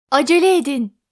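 coffee machine splutters out a plea; coughed urging. Acted. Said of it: "diye öksürdü kahve makinesi".

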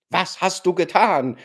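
loud, raging demand; burn her with the question; furious shout. A narrator's reading. Gania screams at his sister, furious. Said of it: "schrie er".

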